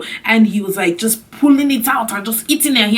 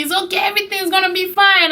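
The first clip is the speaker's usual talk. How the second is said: mock soothing guy; 9 semitones higher, faster than usual. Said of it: "he was holding me".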